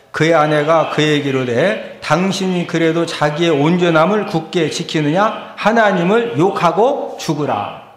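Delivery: loud, measured congregational reading; declaimed Bible verse; scripture reading. Real, not acted. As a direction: read the verse out firmly, phrase by phrase. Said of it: "한번 읽습니다".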